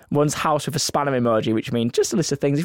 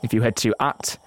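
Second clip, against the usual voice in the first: serious reading voice; 2 semitones lower than usual. Shown as a demonstration. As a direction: read the promo like a solemn movie trailer. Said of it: "serious reading voice".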